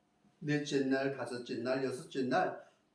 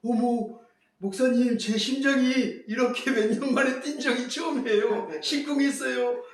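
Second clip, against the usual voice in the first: high, loud fluttering delight; thrilled wife; 9 semitones higher, 6 dB louder than usual. Retold or imitated. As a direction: gush like a heart racing again. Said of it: "얼굴 빨개지고". (설레서 높고 크게 들뜬 목소리)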